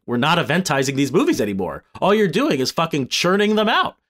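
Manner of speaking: lightly hammed-up CEO on an investor call; Bob Iger. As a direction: raise the pitch for a mock executive complaint. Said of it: "this is my Bob Iger impression".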